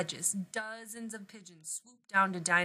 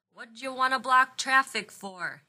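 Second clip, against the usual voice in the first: louder, higher driver's call; called-out complaint; 4 semitones higher, 6 dB louder than usual. Acted. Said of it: "he called out".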